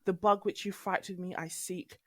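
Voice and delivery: lightly posh Shakespeare reading; proper posh. Shown as a demonstration. Showing how she gets posh when doing Shakespeare. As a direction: recite it in a mild, plummy stage voice. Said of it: "I go proper posh".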